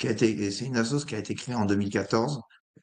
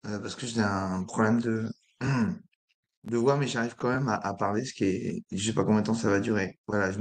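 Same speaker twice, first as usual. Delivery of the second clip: rough, croaky voice from a sore throat; hoarse voice struggling to get through. Real, not acted. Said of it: "excusez-moi cette voix d'outre-tombe".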